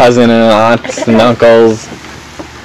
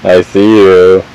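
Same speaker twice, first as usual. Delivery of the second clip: slow peekaboo; 5 semitones lower, much slower than usual. Real, not acted. Peekaboo with baby.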